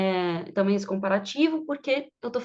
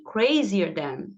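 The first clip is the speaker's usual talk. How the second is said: slow teaching demo; 3 semitones lower, much slower than usual. Shown as a demonstration. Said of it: "teacher models the word slowly".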